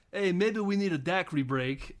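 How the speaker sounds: hint at a celebrity's voice; Christopher Walken. Retold or imitated. Father figure suggesting a break, lightly imitated actor. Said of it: "that's when Christopher Walken's like".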